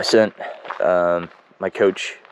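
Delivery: stuffy, froggy congested voice; talking through a blocked nose. Real, not acted. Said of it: "I'm really congested today, so I'm sorry if I sound so, uh, froggy".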